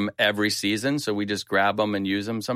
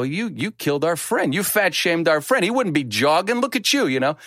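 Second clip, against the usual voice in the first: half-joking accusation, higher pitch; mock accusation; 6 semitones higher than usual. Teller laying into friend at the wake, mock angry. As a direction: rib him like you mean it, a bit higher. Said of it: "I just start laying into him".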